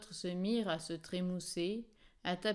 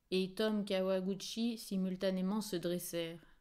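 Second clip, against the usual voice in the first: ordinary delivery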